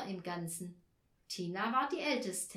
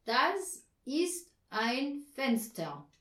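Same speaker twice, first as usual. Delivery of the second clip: slow, louder dutiful repetition; well-behaved pupil; 4 semitones higher, 5 dB louder, much slower than usual. A narrator's reading. Herr Marconi repeating Anja's sentence, like a good pupil. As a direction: recite it obediently, word by word, louder. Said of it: "wie ein artiger Schüler".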